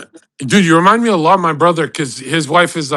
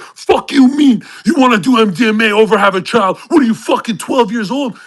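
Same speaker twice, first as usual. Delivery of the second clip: retold angry brother; 4 semitones higher, 3 dB louder than usual. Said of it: "He got so angry".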